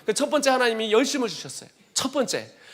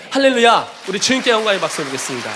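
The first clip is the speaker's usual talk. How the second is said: praise shout; 3 dB louder than usual. Real, not acted. Calling congregation to applaud.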